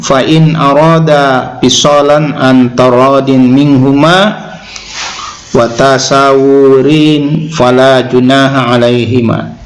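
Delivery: slow, measured Arabic recitation; Quran recitation. Acted. Preacher quoting Allah's word to the congregation, slow recitation. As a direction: recite the verse slowly, drawing out long vowels.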